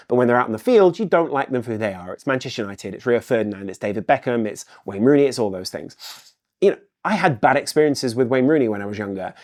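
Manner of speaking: usual speaking voice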